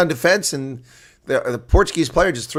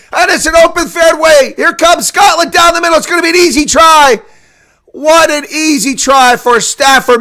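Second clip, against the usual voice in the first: much higher and louder, near shouting; excited shouting; 11 semitones higher, 9 dB louder than usual. Real, not acted. Commentator calling Scotland's runaway try to viewers, excited. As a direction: shout the breakaway as it happens. Intercept leads to easy try.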